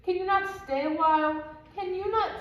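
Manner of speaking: hammed-up breathless protest; out of breath. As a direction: puff as if winded from running. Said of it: "I am out of breath".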